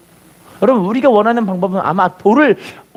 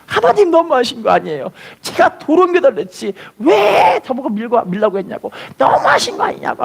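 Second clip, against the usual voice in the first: put-on complaining boy; 4 semitones higher than usual. Boy complains to God crying.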